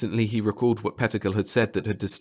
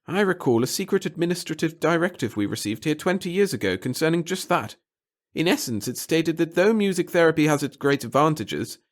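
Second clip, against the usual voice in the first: high, nervous little official; a fussy, timid bureaucrat; 6 semitones higher, 3 dB louder than usual. Acted. Pettigill explains the directive.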